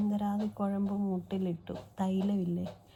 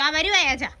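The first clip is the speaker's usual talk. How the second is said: calling back; 7 semitones higher, 11 dB louder than usual. Real, not acted. Answering father's call.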